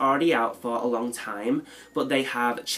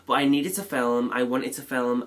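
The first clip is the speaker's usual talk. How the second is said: blocked nose, congested; nasal cold voice. Real, not acted. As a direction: speak through a head cold. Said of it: "look past my nasally sounding voice".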